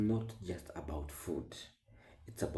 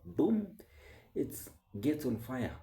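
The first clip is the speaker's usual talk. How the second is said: explosive boom; 7 semitones higher than usual. Acted. Describing how the internet blows up a small thing, explosive boom. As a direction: burst it out like an explosion.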